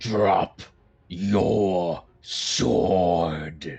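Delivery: normal voice doubled by a low growl beneath. Casting command, the character speaks with a growl underneath his voice. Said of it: "another voice that seems to be like growling underneath".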